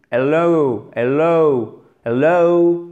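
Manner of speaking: slow teacher's demo of hel-LOOW; drawn-out diphthong ending. Shown as a demonstration. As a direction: drag out the end of hello as a double sound. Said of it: "vous faites traîner sur la fin".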